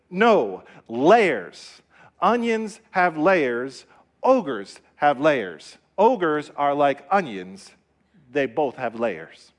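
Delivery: slow, emphatic ogre, lightly voiced; Shrek. Ogre explaining himself to the donkey, lightly imitated, slow and emphatic. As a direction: spell it out word by word, deliberately. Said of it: "And Shrek says".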